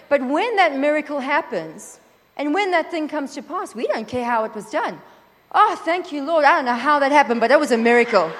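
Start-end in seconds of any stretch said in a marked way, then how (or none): 5.5-8.3 louder, breathless thanks with a laugh; mock gushing thanks. Believer thanking God after a miracle, gushing with a laugh. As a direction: gush like a surprised believer.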